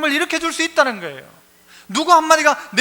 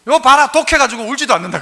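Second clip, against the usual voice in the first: louder nagging scold; mock a mother's sharp reprimand, louder; 5 dB louder than usual. Mother scolding child who won't cry, mock angry. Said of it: "안 울면 어떻게 해요?".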